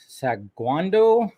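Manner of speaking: Saguando tried slowly, unsure; unsure name attempt. Real, not acted. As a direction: sound out the name Saguando hesitantly. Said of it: "I probably butchered that".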